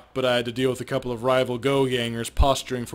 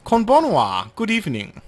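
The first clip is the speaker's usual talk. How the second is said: higher, teasing madam greeting a guest; a bar owner flirting with a short newcomer; playful madam voice; 6 semitones higher, 6 dB louder than usual. Acted. S0 voices Miss Kubota.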